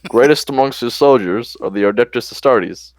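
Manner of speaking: mildly exaggerated impression of the American president; measured presidential speech, lightly imitated; Obama. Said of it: "Okay, here's the Obama".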